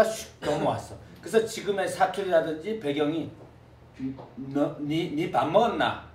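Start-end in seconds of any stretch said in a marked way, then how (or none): 4.4-6.1 Gyeongsang dialect. Shown as a demonstration. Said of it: "이렇게 해서 니라고 하는 것처럼".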